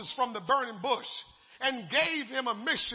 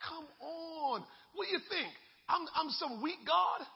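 voicing God; 4 semitones higher, faster than usual. Preacher voicing God challenging the excuse-maker, building to a shout. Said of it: "I just can picture God saying".

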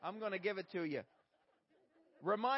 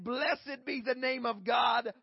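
rising impassioned oratory; 2 semitones higher, 9 dB louder, slower than usual. Acted. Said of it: "He said".

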